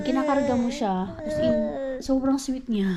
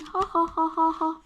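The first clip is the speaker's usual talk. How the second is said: 1 mock baby laugh; 6 semitones higher than usual. Mimics laughing baby in book.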